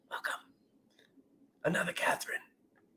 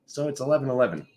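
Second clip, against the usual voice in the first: just woke up; faster than usual. Real, not acted. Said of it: "You can hear that I just woke up".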